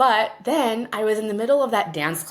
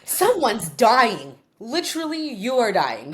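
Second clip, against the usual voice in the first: mock alarm; 4 semitones higher, 4 dB louder than usual. Mock panic about calls.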